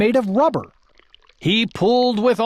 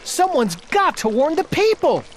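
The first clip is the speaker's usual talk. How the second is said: urgent, with light stress on got; a boy's mild urgent cry; 8 semitones higher than usual. Acted. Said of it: "cried Bartholomew".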